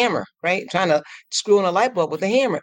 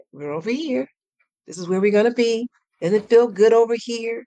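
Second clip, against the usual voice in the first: gentle coaxing; 5 semitones higher than usual. Shown as a demonstration. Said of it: "really gently, really lovingly".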